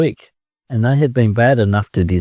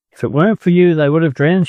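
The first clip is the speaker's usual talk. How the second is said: tearfully; 7 semitones higher, faster than usual. Acted. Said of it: "she said tearfully".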